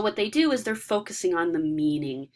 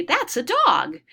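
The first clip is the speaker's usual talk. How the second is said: put-on quoting a child; 9 semitones higher, 4 dB louder, slower than usual. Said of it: "they say".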